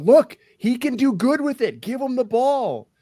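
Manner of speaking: high-pitched yelling like frustrated fans; imitated crowd yell. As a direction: yell it out like a heckler in the stands. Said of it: "they would yell out".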